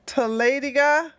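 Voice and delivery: questioning "taladiga", lifted at the end; trying out pronunciation. Real, not acted. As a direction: test "taladiga" as if asking whether it is right. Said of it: "that's not how you pronounce it".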